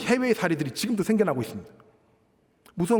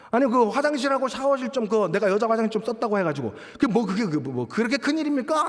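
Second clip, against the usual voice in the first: higher-pitched indignant protest, imitating the man; defiant talking back; 4 semitones higher than usual. Evicted man arguing with the landlady as he leaves, mock defiance. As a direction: act out a brazen self-justifying retort. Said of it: "라고 막 대드는 거예요".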